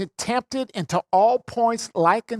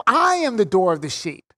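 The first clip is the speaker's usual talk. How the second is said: "I am" said as pointing to self; pointing to himself. Shown as a demonstration. Preacher voicing Jesus pointing to himself, emphatic. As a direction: claim it for yourself with "I am". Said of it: "He's pointing to himself".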